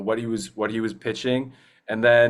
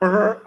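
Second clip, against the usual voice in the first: brrr sound effect; 8 semitones higher, 4 dB louder than usual. Acted. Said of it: "I can't remember it".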